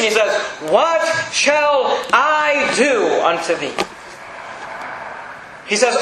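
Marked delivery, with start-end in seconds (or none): 0.7-3.7 slow, drawn-out exasperation; frustrated. Acted. Preacher voicing God's frustration with Ephraim, slow and exasperated. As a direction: spell out the frustration word by word. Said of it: "you can almost hear his frustration".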